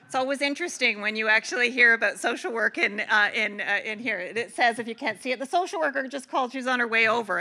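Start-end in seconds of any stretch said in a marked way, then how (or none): 5.4-7.4 quicker, lightly panicked quote; mild mock panic. Speaker reads a cartoon caption to colleagues, in mild mock panic. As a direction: read it out in pretend alarm. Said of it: "as they say in panic".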